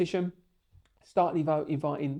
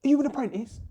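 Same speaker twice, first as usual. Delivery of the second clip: higher, louder mock Bob asking; crappy Bob impression; 9 semitones higher, 5 dB louder than usual. Retelling, mimics Bob doubting he's qualified, high and loud. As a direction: ham up Bob questioning the young bricklayer. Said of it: "I'm gonna do a crappy impression of Bob now".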